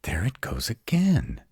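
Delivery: hushed, breathy whisper. Acted. To partner in the dark cave, tense whisper. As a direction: whisper so the intruder won't hear. Hears noise again, hushes.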